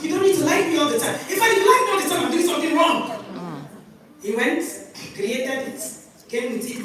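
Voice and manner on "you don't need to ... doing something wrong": firm retort. Retold or imitated. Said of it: "I said".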